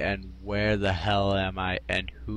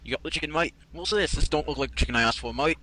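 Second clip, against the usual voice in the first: Australian sniper; 4 semitones higher, faster than usual. Acted. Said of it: "he's supposed to be a sniper from T F two".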